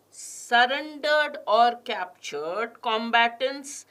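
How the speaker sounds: slow, each word set apart; slow deliberate read. Shown as a demonstration. Teacher reading the passage aloud, slow and careful. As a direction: read it out slowly for the class. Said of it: "I'm also going to stress on certain words".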